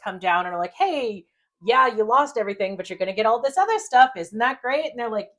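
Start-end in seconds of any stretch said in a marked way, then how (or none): 0.7-4.9 higher, mildly acted cheery sales pitch; upbeat announcement. Angels offer the bereaved couple compensation, mock-upbeat. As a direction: lightly mimic angels selling consolation. Angels voiced breaking good news.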